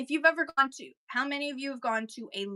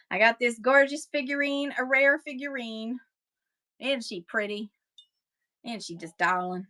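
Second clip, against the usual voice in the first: put-on Kentucky auctioneer accent. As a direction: show it off with a touch of Kentucky twang. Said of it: "I don't know why I'm doing with that accent".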